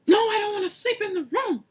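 high, fast whiny refusal; grandma whining no, high and quick; grandma refusing. Retold or imitated. Grandma refusing to go to bed, high whiny protest.

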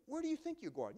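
playfully protesting they'd leave; cowboy cheerfully insisting the family stay for dinner; friendly surprised invite. Retold or imitated.

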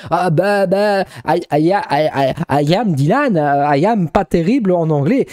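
halting, stammered beginner's English; mock tongue-tied English learner; struggling to speak English. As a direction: stumble through English, searching for the words. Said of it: "c'est très difficile pour moi de m'exprimer".

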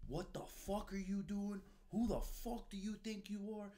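angry yelling. Retold or imitated. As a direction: tear into him like a furious gunny. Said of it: "He slams the door".

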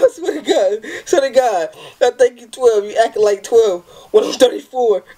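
high, laughing voice; giggling through the words. Real, not acted. Reading the text on, still laughing.

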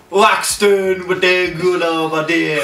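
amateur mock Jamaican accent. Taking a turn at the catchphrase, shaky-grasp Jamaican accent. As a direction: have a rough go at Jamaican. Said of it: "first accent is gonna be a Jamaican challenge".

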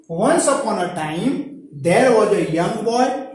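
each word drawn out slowly for learners; slow dictation reading. Shown as a demonstration. Teacher reading the opening line to students, slow and clear. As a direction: read it slowly so students follow.

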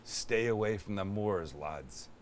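low, hushed movie warning; ominous warning. Retold or imitated. Quoting the werewolf film's warning, low and hushed. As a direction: warn them off in a low hush. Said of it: "Remember that movie".

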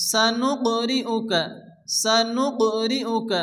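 سنقرئك with a light bounce on the ق; bounced qaf. Shown as a demonstration. Teacher showing students the qalqala bounce. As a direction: tap the ق of سنقرئك with a small echo. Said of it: "হালকা ধাক্কা দিয়ে পড়তে হবে".

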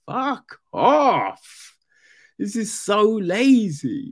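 high, straining disgust; exasperated outburst. Acted. Reader fed up with lazy box-ticking, exasperated high outburst.

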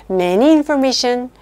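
"many information" spoken very slowly, word by word; deliberate slow read of "many information"; slow wrong example. Shown as a demonstration. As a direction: drag out "many information" as the mistake to spot. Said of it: "many information 이러면 땡 틀립니다".

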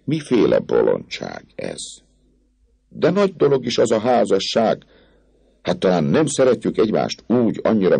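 wheedling captain. Acted. Captain wheedling the girl, flattering. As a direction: coax her with easy charm.

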